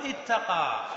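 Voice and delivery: اتقى with both t sounds merged into one long t; merged double t. Shown as a demonstration. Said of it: "تدغم التاء في التاء".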